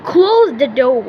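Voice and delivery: British accent. Shown as a demonstration. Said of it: "মানে British উচ্চারণ হবে".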